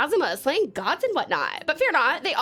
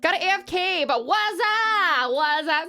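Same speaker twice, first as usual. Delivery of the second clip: put-on Valley Girl. Streamer greeting viewers after a voice redeem, Valley Girl. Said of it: "I don't normally talk like this, but you literally came in as a Valley Girl".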